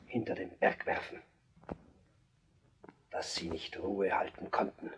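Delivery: trailing off. Acted. King drifts into private thought.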